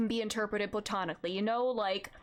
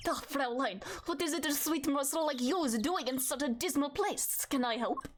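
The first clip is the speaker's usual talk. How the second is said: hammed-up, wobbly German accent; shaky attempt at a German accent; bad German accent; 2 semitones higher than usual. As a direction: attempt a suave German flirt, badly. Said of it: "do I need to give him a German accent?".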